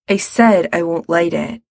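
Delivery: shortly. Acted. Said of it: "Gerard says shortly".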